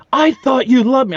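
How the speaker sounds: mock the clingy girlfriend's wail; whiny girlfriend. Teller imitating a clingy girlfriend at his door, high whine. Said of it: "She's like".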